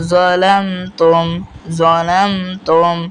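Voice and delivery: slow "যালামতুম", m closing the syllable "লাম"; measured "যালামতুম" with m held before "তুম"; joined consonant. Shown as a demonstration. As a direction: join "লাম" in one sound, then "তুম". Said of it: "একবার উচ্চারণ হবে".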